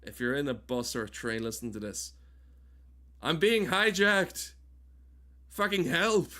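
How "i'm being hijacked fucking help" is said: high, loud pretend cry for help; mock hijack alarm. Streamer pranking listeners on a bus or train, mock alarm. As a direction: shout it as if being hijacked, hammed-up.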